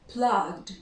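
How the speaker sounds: "plugged" with voiced G then D; one-syllable "plugged", ending in a D; silent E. Shown as a demonstration. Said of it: "We pronounce the G and then a D".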